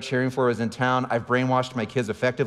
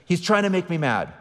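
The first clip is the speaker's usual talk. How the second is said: daughter yelling; 6 semitones higher than usual. Retold or imitated. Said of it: "she yells".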